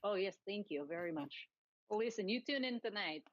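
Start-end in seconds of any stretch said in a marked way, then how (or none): 0.0-1.5 light mock Russian accent; a hint of a Russian accent, pleased with the praise; mild Russian accent, playful. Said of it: "your Russian accent".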